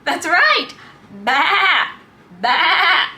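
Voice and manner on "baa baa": bleating like a sheep. Shown as a demonstration.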